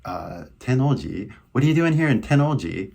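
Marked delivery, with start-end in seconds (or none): 1.5-2.9 quick, higher casual Californian; brisk casual California greeting; familiar California accent. Shown as a demonstration. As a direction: rattle it off in easy California American English. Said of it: "use a familiar accent".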